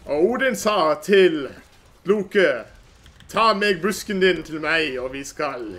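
slow, mock Old Norse Norwegian, like a Norse god; hammed-up Norwegian accent as Odin's voice; fake Norwegian accent. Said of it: "fake Norwegian accent".

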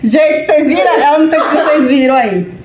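talking through laughter; laughing. Real, not acted. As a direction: still laughing at the near fall. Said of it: "de tanta gente dar risada". (falando entre risadas)

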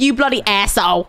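British speaker trying southern "asshole"; southern pronunciation. Acted. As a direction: swear with a southern-style "asshole". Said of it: "randomly become Southern now".

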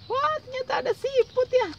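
high-pitched delighted surprise; exaggerated amazement, voice way up; excited reveal. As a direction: squeal the big reveal for a child. Revealing the snail after counting.

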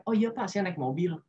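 easygoing, polite reply at an everyday volume; laid-back and respectful; relaxed answer. Shown as a demonstration. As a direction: answer the interviewer casually and unforced. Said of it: "jawabnya santai gitu".

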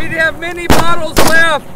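yelling. Acted. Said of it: "I'm gonna be yelling words at you".

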